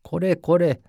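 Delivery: rough exclamation. Acted. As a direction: snap it out roughly. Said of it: "roughly exclaimed the soba man".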